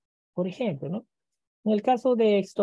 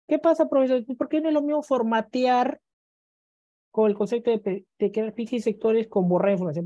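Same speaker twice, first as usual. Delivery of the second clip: imitating a student; 3 semitones higher than usual. Teacher voices a student's question.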